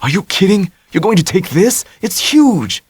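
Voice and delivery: Tommy stunned by the size of the boat; alarmed disbelief. A narrator's reading. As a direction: gape at the huge yacht.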